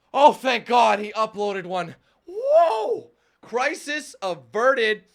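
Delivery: loud, drawn-out mock rejoicing; hammed-up relief. Viewer sees the new video is up, hammed-up relief. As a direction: play a fan whooping with huge relief.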